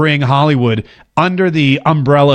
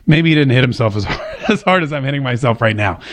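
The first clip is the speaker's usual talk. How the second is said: chuckling while talking; laughing through pain; 4 semitones lower than usual. Real, not acted. Vlogger laughing after thumping his own chest, chuckling. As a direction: laugh as you wince. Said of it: "This hurts really bad".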